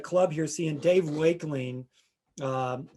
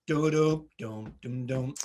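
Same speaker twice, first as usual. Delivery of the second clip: imitating bass line; 4 semitones lower, slower than usual. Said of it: "the bass player goes".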